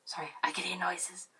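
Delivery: hushed aside, breath only; whisper. Real, not acted. Whispering to viewers about noises nearby. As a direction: drop to a whisper for a quick apology.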